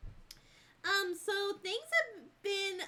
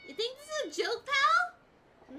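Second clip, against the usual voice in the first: gruff challenging tough-guy voice; 7 semitones higher, 6 dB louder than usual. Acted. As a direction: sneer at a rival. Reading NPC dialogue in voice.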